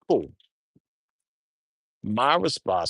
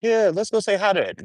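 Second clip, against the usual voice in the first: eager high voice; 11 semitones higher, 5 dB louder, faster than usual. Retold or imitated. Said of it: "They's like".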